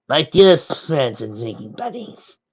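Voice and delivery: slow, loud hearty toast. Acted. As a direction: raise a toast to the hall. Freya addresses the hall.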